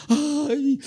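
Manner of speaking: put-on slow, high little kid's ay; childish ay. Pastor showing how a fallen child cries out, high. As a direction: whimper like a small child. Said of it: "Un niño hace eso".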